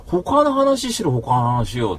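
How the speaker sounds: mock furious shout; retold angry outburst. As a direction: snap it out, reliving the anger. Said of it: "つって怒ってるわけ".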